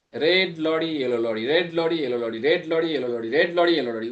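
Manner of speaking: red lorry, yellow lorry looped without a pause; tongue twister drill. Shown as a demonstration. Teacher shows students how to practise the twister, quick unbroken repetition. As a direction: rattle off "red lorry, yellow lorry" in a steady running chain. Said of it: "We have to speak in this fashion".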